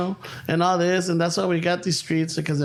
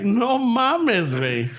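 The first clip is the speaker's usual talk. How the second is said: laughing disbelief; 10 semitones higher, slower than usual. Real, not acted. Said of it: "laughing disbelief".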